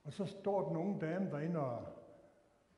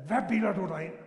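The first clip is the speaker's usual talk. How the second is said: stern rebuke; 2 semitones higher, 8 dB louder, faster than usual. Retold or imitated. Holy Spirit rebukes him.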